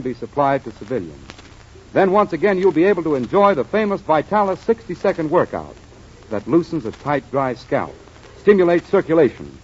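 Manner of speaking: smooth announcer sponsor pitch; ad read. Acted. Announcer pitching Vitalis to listeners, ad read. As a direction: sell it to the radio listeners.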